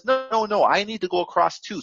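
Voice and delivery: lightly acted, insistent objection; mild protest. Scorpion pleading its case to the frog, mild protest.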